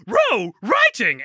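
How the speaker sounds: patient doggy repeat; Scooby voice. Retold or imitated. Scooby repeats to Shaggy, slow high dog voice. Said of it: "And he's like".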